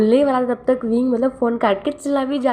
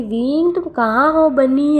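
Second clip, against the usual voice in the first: calling out; 6 semitones higher, slower than usual. Acted. Eugene calling for Wing from the other room, drawn out. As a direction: call across the house to find him.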